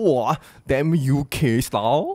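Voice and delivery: slow, drawn-out mock admiration; impressed-sounding teasing at a show-off, slow; mock awe. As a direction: tease a show-off, slowly. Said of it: "someone is speaking like U K slang".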